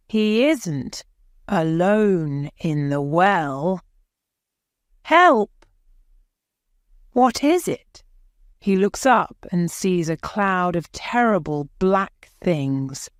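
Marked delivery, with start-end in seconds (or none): 5.0-8.0 high, loud scared call into the dark; scared child calling for help; frightened cry. Acted. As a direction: cry out, startled by a noise. Boy trapped in the dark well.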